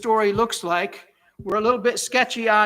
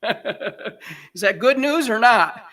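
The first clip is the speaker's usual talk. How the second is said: laughing; 4 dB louder, much slower than usual. Real, not acted. Pastor laughing at ironic verse.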